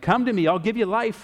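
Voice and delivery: high pleading. Speaker explaining scripture, voicing god pleading with people to come to him, acting out a plea. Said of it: "he's pleading with them. He's like".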